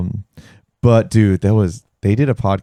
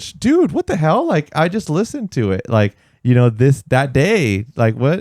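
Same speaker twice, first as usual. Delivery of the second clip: surprised; 4 semitones higher than usual. Retold or imitated. Retold shock at the invite.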